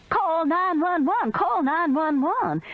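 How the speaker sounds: high, slow scream for help; panicked old woman screaming. A narrator's reading. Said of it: "Meemaw's scream changed to".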